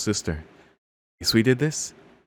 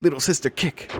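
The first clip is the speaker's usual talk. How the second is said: battle cry; 7 semitones higher than usual. Acted. Little sister attacks the hero.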